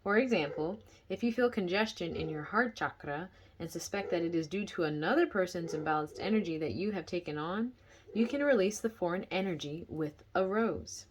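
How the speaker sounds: measured book-reading voice, projected; reading aloud. Real, not acted. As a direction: read the passage out clearly to listeners.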